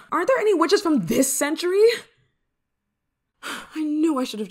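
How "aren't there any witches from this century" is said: high, loud frustrated rant; exasperated. Acted. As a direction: rail at a useless spellbook, sighing between lines. Exasperated at useless spellbook.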